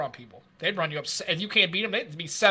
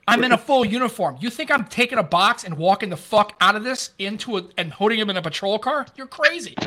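a louder, higher mock rant at his partner; retold indignant outburst; 4 semitones higher, 4 dB louder than usual. A cop refuses his partner's free donuts, mock outrage. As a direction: act out refusing, getting heated.

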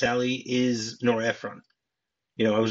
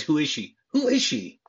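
mock disbelief, pitched higher on the repeat; incredulous retold delivery; 4 semitones higher than usual. Quoting Sally asking who the fiancée is, incredulous. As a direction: imitate her astonished question, lifting it higher. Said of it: "has an amazing delivery by saying".

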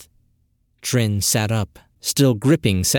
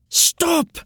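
commanding scream. Acted. Trin orders time to stop, high sharp command. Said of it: "she screamed commandingly".

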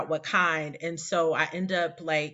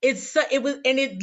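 laughing; 7 semitones higher, 4 dB louder, faster than usual. Real, not acted. Laughing after emotional story.

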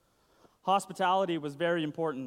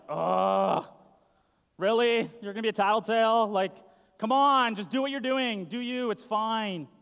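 louder, exasperated eye-roll voice; Jesus brushing off Martha's complaint, exasperated and louder; 2 semitones higher, 5 dB louder than usual. Pretend. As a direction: sigh it out like you're fed up with the tattling. Jesus imagined reacting to tattling.

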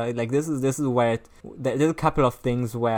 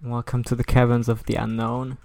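lightly performed hotline host read; mildly dramatic reading; 4 dB louder than usual. Acted. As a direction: read it out with a touch of ceremony. Reads film's horoscope hotline subtitles.

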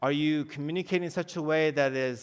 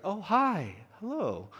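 imitating a roommate's higher voice for a girl; mock sweet, higher "Oh, hi, hello"; voice going high; 4 semitones higher, slower than usual. Roommate answering a girl's call, mock higher voice. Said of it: "as soon as their voice went high".

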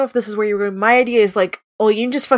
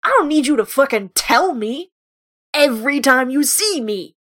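heated, swearing outburst at Raba, pitch climbing; angry rant. Acted. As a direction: vent in a raw, fed-up rant. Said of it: "Captain Olyun is just like".

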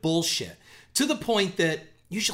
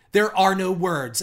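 mock-heartfelt, emphatic post; hammed-up online grief; mock all-caps gushing; 3 semitones higher, 3 dB louder than usual. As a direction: read it with sarcastic over-earnestness. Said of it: "in all caps, like she's twelve years old".

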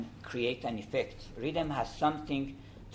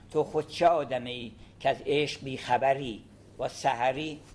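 Persian poem recital; much faster than usual. Shown as a demonstration. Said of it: "recites Sadi's poem in Persian".

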